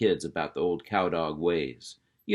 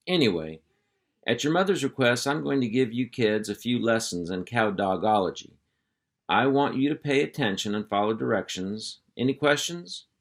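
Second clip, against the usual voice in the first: hearty uncle voice; 3 semitones higher than usual. Acted. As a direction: round up the kids like a ranch boss. Hank begins the lesson.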